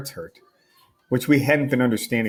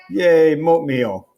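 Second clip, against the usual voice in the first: a slow, drawn-out, louder cheer; kid cheering; 5 semitones higher, 5 dB louder, much slower than usual. Acted. Little brother cheering at winning the oatmeal fight, drawn-out happy yay.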